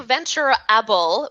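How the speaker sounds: Venturable with a clear "able" ending; able, not ebble. Shown as a demonstration. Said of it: "Able, it's not Ebble".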